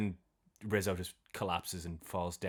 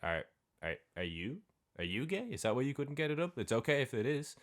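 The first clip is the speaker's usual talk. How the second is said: teasing woman; 5 semitones higher than usual. Retold or imitated. Woman teasing him about being gay.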